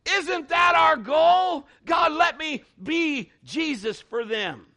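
slow climactic preacher's shout; preaching shout. Real, not acted. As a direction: shout it out to the rafters.

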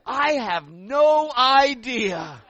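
high, very loud, drawn-out disowning; hammed-up denial. Son in the huddle disowning his cheering mom, loud slow denial. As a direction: stretch it out loudly, disowning your own mother. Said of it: "this is what I said".

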